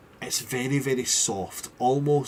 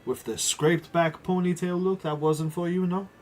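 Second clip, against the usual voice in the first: lightly mock-offended tease; playful fake offence, barely acted; mock affront; 4 dB quieter, slower than usual. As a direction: pretend to be hurt, playfully. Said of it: "mock affront and be like".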